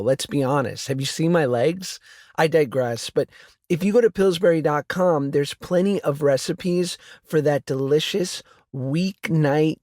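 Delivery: upbeat sponsor read; casual podcast ad read. Acted. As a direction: sell the crescent rolls with a bright pitch. Host reads a sponsor ad.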